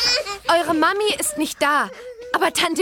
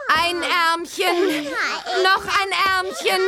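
slow singsong "ein Ärmchen, noch ein Ärmchen" drawn out; coaxing singsong; slower than usual. Acted. Bibi dressing a twin, slow coaxing singsong. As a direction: sing the words while sliding each arm in.

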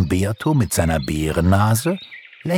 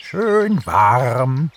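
lightly voiced higher stork; 8 semitones higher, 3 dB louder than usual. A narrator's reading. Stork reports on Africa to Pixie, in stork voice. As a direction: answer in a stork's character voice. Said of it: "klapperte ein Storch".

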